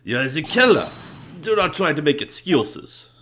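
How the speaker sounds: accusing. Acted. Voicing an accuser in game.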